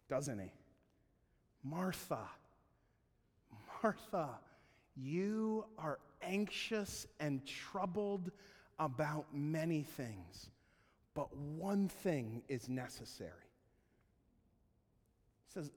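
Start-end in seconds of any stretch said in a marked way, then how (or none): 1.6-13.5 slow, soft, tender correction; lovingly setting her straight, slowly; gentle rebuke. Retold or imitated. Jesus gently rebuking Martha.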